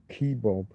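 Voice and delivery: "kebab" as KEE-bob; North American pronunciation. Shown as a demonstration. Streamer listing North American variants, KEE-bob pronunciation. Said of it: "turn the final A sound into an O".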